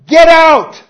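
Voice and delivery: full-force shout at the top of the lungs; a preacher bellowing Jesus' command. Acted. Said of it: "Jesus shouted at the top of his lungs".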